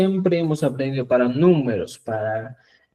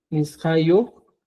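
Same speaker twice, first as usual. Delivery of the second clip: slow repeat; slower than usual. Shown as a demonstration. Teacher repeating the phrase slowly.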